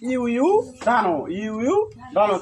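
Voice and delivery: ইউ ইউ ধানো with "yu" sounds, in separate parts; pronunciation demo. Shown as a demonstration. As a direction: model ইউ ইউ ধানো as "yu-yu, dhano". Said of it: "উচ্চারণ কি হবে?". (ইউ ইউ ধানো ভাগ করে উচ্চারণ)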